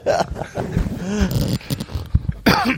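laughing. Real, not acted. Laughing after goal chant.

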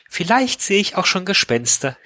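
high-pitched line tipping into giggles; hammed-up nervous giggling at the end; hysterical giggle. A narrator's reading. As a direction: finish in an acted hysterical titter. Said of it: "mit einem hysterischen Kichern".

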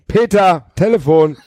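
high call to wake someone. A narrator's reading. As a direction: call sharply to a sleeper. Wife calls sleeping husband.

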